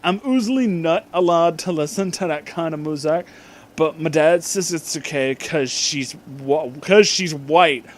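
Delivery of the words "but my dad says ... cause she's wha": usual speaking voice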